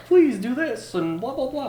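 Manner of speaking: hammed-up loud announcer voice; overly polished radio host, laughing. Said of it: "It's your radio voice".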